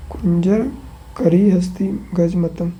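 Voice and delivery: whispered under the breath. Real, not acted. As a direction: murmur the words silently to yourself. Whispering memorized synonyms to self. (फुसफुसाकर)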